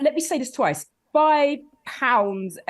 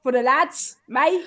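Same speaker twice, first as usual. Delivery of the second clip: mock London lad; 3 semitones higher, 4 dB louder, slower than usual. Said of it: "But London".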